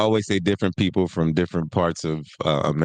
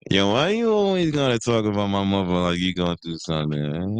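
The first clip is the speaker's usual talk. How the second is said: sung-out New York street challenge; Kanan. Retold or imitated. Showing how a TV character sings when talking, singsong voice. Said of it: "Kanan be like".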